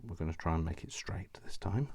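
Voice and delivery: whispered while concentrating; hushed, to herself, cutting carefully. Real, not acted. Crafter whispering to herself mid-cut.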